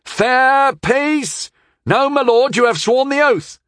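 urgent high-pitched shout; yelling. A narrator's reading. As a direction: shout to restrain an angry lord. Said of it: "I heard someone yelling".

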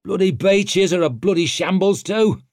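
high, loud disgruntled grunt; grunted complaint. A narrator's reading. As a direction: grumble it loudly, fed up. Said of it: "grunted Antaup".

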